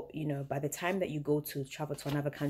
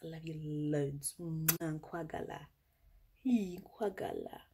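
cooing to a lover; 7 dB quieter than usual. Pretend. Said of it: "That means".

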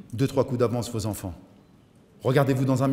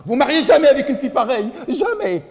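laughing shout; 10 semitones higher, 10 dB louder than usual. Real, not acted. Preacher warning sisters, laughing.

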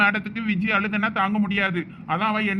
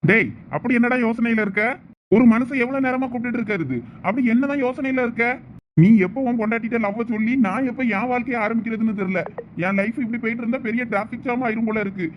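higher-pitched, impatient scolding of a friend; exasperated outburst; 5 semitones higher than usual. Acted. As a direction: nag him in a raised, fed-up pitch. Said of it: "இவங்கிட்ட கத்திட்டோமே அவசரப்பட்டு". (பொறுமையிழந்து நண்பனைக் கத்துதல்)

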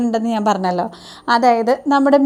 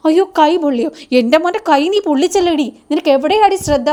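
mock scolding, raised pitch; scolding mother-in-law; 4 semitones higher than usual. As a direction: act out an indignant mother telling off her daughter-in-law. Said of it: "അവളോട് എന്തിനാ ഇങ്ങനെ അമ്മ ശകാരിക്കുന്നത്". (ശകാരിക്കുന്ന അമ്മായിയമ്മയായി അഭിനയിച്ച്)

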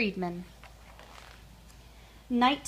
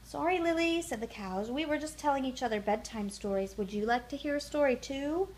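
higher, fast friendly cows; chatty cow voice; 4 semitones higher than usual. Acted. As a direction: rattle it off like cheerful cows. Cows apologise and offer story.

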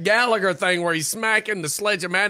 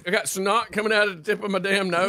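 laughing; faster than usual. Real, not acted. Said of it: "I'm laughing so hard".

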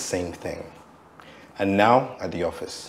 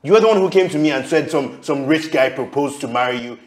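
angry accusation; 2 semitones higher, 4 dB louder than usual. Acted. Lovers' quarrel, accusing.

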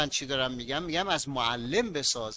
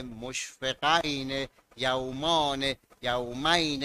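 slow, each word drawn out for the class; slow spelled-out examples; 2 semitones lower, much slower than usual. Shown as a demonstration. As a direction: stretch every example word slowly. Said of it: "برای مثنا میاد". (کلمات را آهسته و کشیده بگو)

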